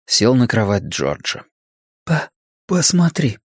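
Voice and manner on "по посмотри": high-pitched halting stammer; stuttering. A narrator's reading. Bill points Richie to the album, stuttering. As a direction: trip on the first syllable, then say it.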